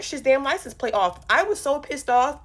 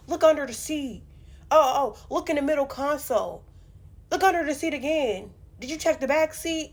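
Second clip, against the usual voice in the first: put-on boyfriend; 4 semitones higher than usual. Boyfriend deflecting, voiced higher.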